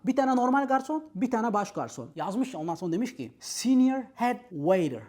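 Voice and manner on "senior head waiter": slow, drawn-out mock grandeur; pompous English job title, sarcastic. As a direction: say it like a lofty title. Mocking the inflated job title.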